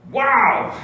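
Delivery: high incredulous "Wow"; amazed wow. Real, not acted. Preacher reacting to the story, incredulous wow. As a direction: let the disbelief out.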